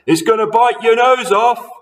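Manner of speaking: high, loud put-on amazement; mock-amazed husband. A narrator's reading. Husband pretending frog is a monster, mock amazement. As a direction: pretend to be shocked. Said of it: "Mister Twit said".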